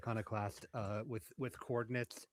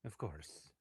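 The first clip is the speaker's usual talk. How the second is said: whispering; 4 semitones lower, 4 dB quieter than usual. Acted. Reply whispered back.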